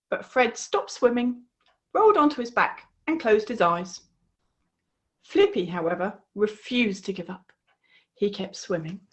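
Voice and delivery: put-on lively storybook voice for young listeners; reading to children. A narrator's reading. A host reading the frog story to children, lively. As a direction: tell the frog tale with bright expression.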